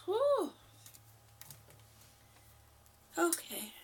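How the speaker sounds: winded after workout; puffing, needs to sit; out of breath. Real, not acted. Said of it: "I'm out of breath".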